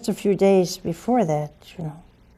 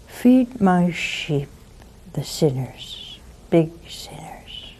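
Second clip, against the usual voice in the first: fading to a whisper; 3 semitones lower, 5 dB quieter, slower than usual. Acted. Lord's tender command, fading.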